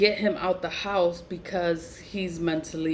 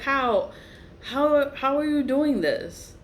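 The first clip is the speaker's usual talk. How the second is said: incredulous; 8 semitones higher, slower than usual. Retold or imitated. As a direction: sputter in disbelief. Retold disbelief.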